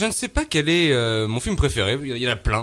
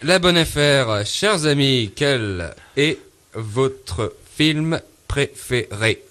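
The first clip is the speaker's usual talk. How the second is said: game-show host; 3 dB louder, slower than usual. Acted.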